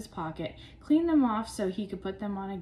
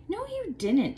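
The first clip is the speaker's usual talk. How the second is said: high, loud protest; yelling; 11 semitones higher, 3 dB louder than usual. A narrator's reading. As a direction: yell him down. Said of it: "Tommy yelled".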